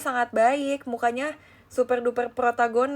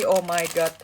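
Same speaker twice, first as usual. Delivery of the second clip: ordinary talk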